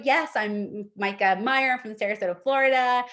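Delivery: friendly, engaging self-introduction; likable introduction. Shown as a demonstration. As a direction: come across likable. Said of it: "I'm leaning into you".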